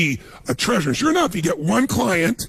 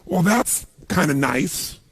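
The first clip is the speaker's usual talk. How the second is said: unimpressed drawl; slower than usual. Retold or imitated. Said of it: "they say".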